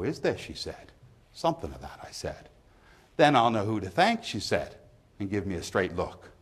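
lightly voiced pub gossip; poem reading. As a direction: read it as a pub storyteller, lightly acted. Reads the pub monologue from the poem.

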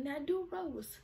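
drill sergeant order. Retold or imitated.

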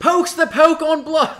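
loud, high hammed-up British commentator; slow, plummy British play-by-play; British accent. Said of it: "They'll put in a British accent".

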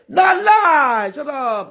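high, squeaky mocking voice; mock denial. Mocking a friend who denies it, in a squeaky voice.

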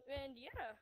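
voice crack. Real, not acted. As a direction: voice cracking on yeah. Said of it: "I had a weird voice crack".

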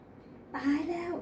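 drawn-out shocked "ตายแล้ว", high; shocked gasp. A narrator's reading. Maid reacting to scandal, high drawn-out shock. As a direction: clutch your chest in shock. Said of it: "ยกมือทาบอกด้วยความตกใจ".

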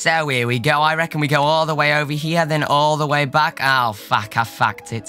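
hammed-up British accent, chatty host; mock British accent. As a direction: put on an over-the-top British accent. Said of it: "I can't do this accent".

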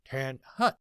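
barked army command; drill sergeant call. Retold or imitated. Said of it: "first sergeant would yell".

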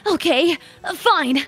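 earnest determined anime hero. Shown as a demonstration. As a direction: echo it as a shonen protagonist. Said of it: "like an anime protagonist".

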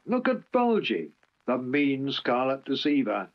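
high, shrill accusation. Acted. Oliver shrills at Bulgy the deceiver, high. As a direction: point him out shrilly. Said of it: "shrilled Oliver".

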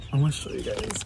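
ordinary delivery

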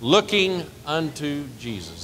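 한 번 더 천천히 외치기; slow repeated call. Shown as a demonstration. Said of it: "Say it one more time".

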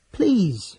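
high, loud plea; pleading. A narrator's reading. Laurana begs Sturm to avoid bloodshed, high and pleading. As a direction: beg them to stop. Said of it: "she pleaded".

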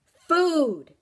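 high, loud demanding shout; loud hungry creature's demand; insistent demand. Acted. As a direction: shout FOOD, drawn out and insistent. Creature insists after being refused.

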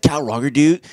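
lightly voiced frat bro; a hint of a surfer dude saying "dude"; frat boy voice. Reviewer quoting Drewski's skit, light frat boy voice. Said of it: "does his white frat boy voice".

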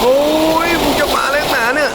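very high, loud frightened shriek; panicked shriek. Real, not acted. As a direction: it is coming for you. Monster approaching in the dark.

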